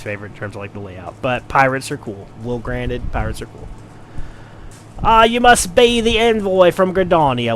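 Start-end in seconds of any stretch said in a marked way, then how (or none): 5.0-7.6 lightly voiced cheerful official, higher; welcoming and bright, pitch up; Limsa greeter. Narrator voicing a port greeter to the envoy, lightly higher. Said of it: "they all speak in sort of cockeyed Cockney pirate".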